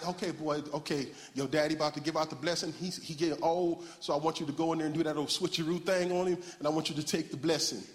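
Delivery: lightly voiced mama, quick and low; scheming mother. Mother instructing her son to trick his father, lightly voiced. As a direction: coach the boy briskly in a hint of a mother's voice. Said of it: "so she like".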